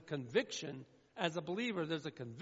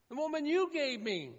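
mock blaming Adam; 7 semitones higher, 5 dB louder than usual.

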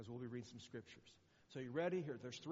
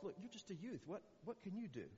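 higher, doubting the youth; doubtful king; 6 semitones higher, 4 dB quieter than usual. Retold or imitated. King Saul doubting young David, lightly voiced and higher. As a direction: Saul scoffing lightly, voice raised in pitch. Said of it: "Saul goes".

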